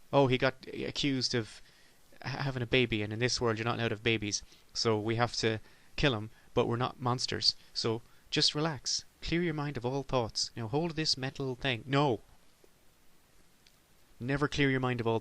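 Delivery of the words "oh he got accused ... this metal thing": a calm official soothing the condemned; mock soothing executioner. Voicing a sci-fi executioner.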